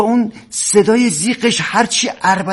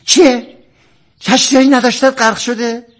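mocking quotation; 3 semitones higher than usual. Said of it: "حرف نزنیم تو خونه میگید".

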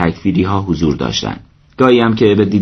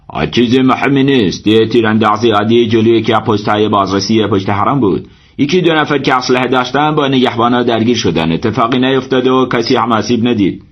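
somewhat higher voice, playing it down; reassuring shrine servant; 3 semitones higher than usual. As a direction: report it as nothing important.

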